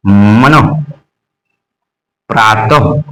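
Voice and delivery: मन and प्रातः ending in a throaty visarga puff; low, careful demo of मन, प्रातः; visarga demonstration. Shown as a demonstration. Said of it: "बाद में उच्चारण किस किस से होगा".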